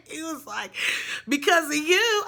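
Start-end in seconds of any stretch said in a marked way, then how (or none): 1.3-2.2 high, loud imitated boyfriend; voicing him, louder and higher; mock accusation. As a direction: throw the blame back, hammed-up.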